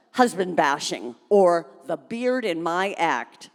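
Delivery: nasty voice. Acted. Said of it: "Phyllis had a nasty voice".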